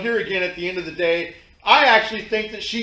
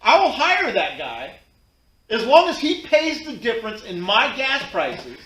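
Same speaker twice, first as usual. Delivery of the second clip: fired-up rant; 2 semitones higher, 5 dB louder than usual. Real, not acted. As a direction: hammer each point home. Ranting about hiring that guy.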